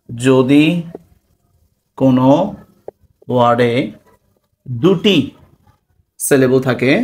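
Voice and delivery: one word at a time, long gaps; dictation. Real, not acted. Teacher giving a definition for notes, dictating. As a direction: dictate slowly, pausing after each word.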